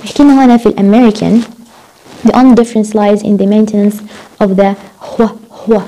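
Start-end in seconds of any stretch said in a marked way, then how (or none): 5.0-5.8 "هو" as an h blown into w, "hwuh"; breathy HW sound. Shown as a demonstration. Teacher showing American W to students, "هو" as "hwuh". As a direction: start "هو" with h before the w. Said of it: "صوت ال W هي ما بيحكوا و".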